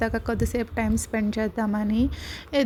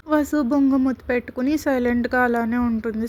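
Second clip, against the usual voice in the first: ordinary delivery, nothing marked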